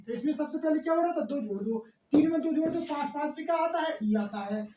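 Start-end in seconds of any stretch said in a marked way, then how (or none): 0.1-2.8 fast rattled-off question; fast teacher patter; rushed explaining. Real, not acted. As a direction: hurry through it like a teacher short on time. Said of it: "हम तो जल्दी जल्दी बोल रहे हैं".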